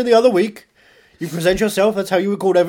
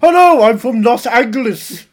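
attempted Los Angeles accent; 4 dB louder than usual. Shown as a demonstration. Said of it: "Could you do an accent of someone from".

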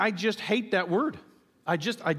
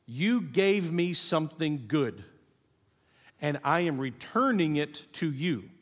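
solemn prayer; slower than usual. Acted. Voices Hannah's prayer, solemn and deliberate.

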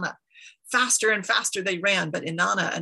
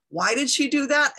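higher-pitched, startled question; dismayed question; 6 semitones higher, 4 dB louder than usual. A narrator's reading. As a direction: ask it in raised, incredulous pitch. Enki's startled question in the story.

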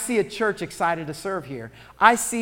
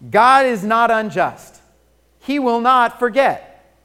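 preached emphasis; 5 semitones higher, 10 dB louder, slower than usual. Real, not acted. Preaching scripture at full force.

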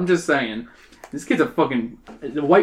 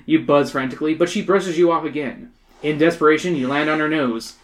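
measured audiobook-style narration; story narration. A narrator's reading. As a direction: read it out as a story.

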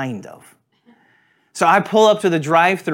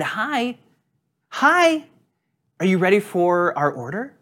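overly friendly drive-thru greeting; very kind greeting; 3 semitones higher than usual. Retold or imitated. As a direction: greet the speaker box sweetly. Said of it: "very kindly".

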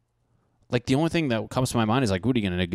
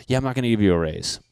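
mock boss; 6 dB louder, faster than usual. Acted boss refusing raise.

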